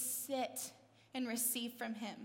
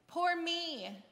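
mock self-pity, pitched up; Martha's self-pity; 4 semitones higher, 3 dB louder than usual. Woman feeling sorry for herself, mock woe-is-me. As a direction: throw a little pity party, higher voice. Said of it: "throwing a little pity party".

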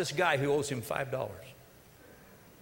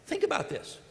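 whispered, high and breathy repeat; hushed repeat; 9 semitones higher, 4 dB quieter than usual. Shown as a demonstration. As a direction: lean in and whisper it to the congregation. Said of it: "Now think about this for a minute".

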